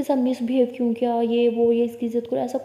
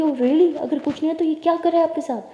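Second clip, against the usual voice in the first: sharp, louder indignant retort; angry challenge; 5 semitones higher, 4 dB louder than usual. Acted. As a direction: throw it back at her sister, fuming. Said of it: "तो परी बहुत ही गुस्सा कर रही होती है।". (गुस्से से तीखा पलटवार)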